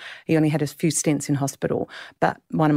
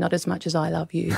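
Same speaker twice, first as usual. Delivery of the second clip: tearful; 4 dB quieter than usual. Real, not acted. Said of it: "I, I will cry when I say this".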